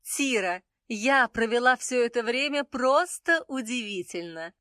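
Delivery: high joyful goddess voice; delighted, glowing with joy. A narrator's reading. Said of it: "радостно произнесла Исис".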